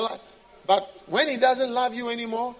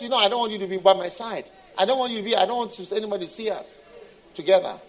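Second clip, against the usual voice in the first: dismissive God; much faster than usual. Acted. God refusing to be seen with the believer, dismissive. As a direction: wave them off, embarrassed by them.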